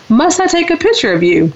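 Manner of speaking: high-pitched South African lady's voice; South African accent. Retold or imitated. Friendly local woman offers to take a photo, South African accent. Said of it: "in her beautiful South African voice".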